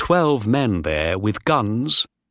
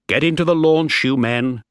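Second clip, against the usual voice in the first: louder, higher barked command; shouted order; 5 semitones higher, 3 dB louder than usual. Acted. Christian ordering sailors into the boat, loud shout. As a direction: order the men off sharply. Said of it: "he shouted".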